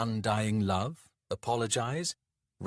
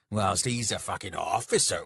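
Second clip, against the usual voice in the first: resentful statement at his usual pitch; bitter contempt; 3 dB louder than usual. Acted. Soldier compares himself with his rival, bitterly. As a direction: spit out the rival's rank with resentment.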